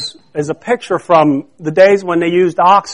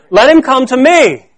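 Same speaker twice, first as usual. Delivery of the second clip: raised, higher proclaiming voice; loud voice; 5 semitones higher, 3 dB louder than usual. Acted. Preacher completing Jesus' call, loud voice. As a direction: declare the invitation with force. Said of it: "said in a loud voice".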